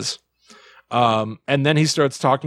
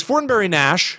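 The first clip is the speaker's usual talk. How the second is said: slow recalling; 6 semitones higher than usual. Retold or imitated. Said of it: "He's pulling from his memory".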